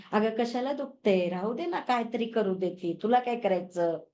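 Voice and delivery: gently reasoning with an aching knee; mild, loving cajoling; affectionate coaxing. Shown as a demonstration. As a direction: talk to your knee like a dear friend. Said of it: "छान प्रेमाने त्याला वागणूक".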